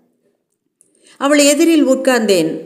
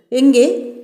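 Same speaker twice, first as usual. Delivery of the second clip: mock surprise; 4 semitones higher, much slower than usual. The doctor asks where they met.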